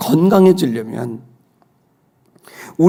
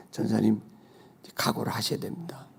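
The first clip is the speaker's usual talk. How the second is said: hushed warning; 6 semitones lower, 14 dB quieter than usual. Retold or imitated. Doctor's grave warning retold.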